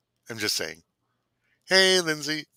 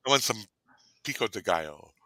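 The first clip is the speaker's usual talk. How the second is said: sultry pico de gallo. Pretend. A host murmuring pico de gallo to a date, seductive. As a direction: breathe "pico de gallo" like an invitation. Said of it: "even saying it like that".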